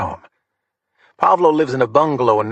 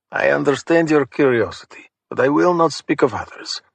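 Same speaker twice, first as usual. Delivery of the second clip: put-on thick Russian accent; 3 semitones higher than usual. Thug politely refusing to name others, thick Russian accent. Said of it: "in that thick Russian accent".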